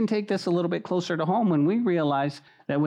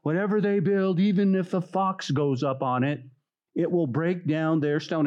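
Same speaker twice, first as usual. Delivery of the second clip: mocking. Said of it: "in a mocking way".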